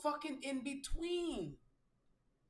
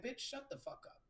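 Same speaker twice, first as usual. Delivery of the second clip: muttered retort; 8 dB quieter than usual. Retold or imitated. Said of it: "I'll be like".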